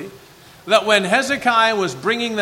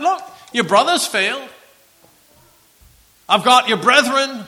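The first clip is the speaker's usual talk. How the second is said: boastful enemy taunt; 3 dB louder than usual. Acted. Voicing the Assyrian commander.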